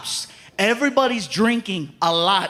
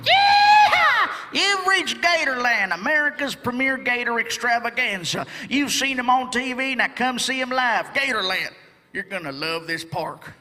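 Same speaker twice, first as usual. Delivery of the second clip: hyped recording voice; 2 semitones higher than usual. Retold or imitated. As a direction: sell it like a cheesy park ad. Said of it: "this is what you hear".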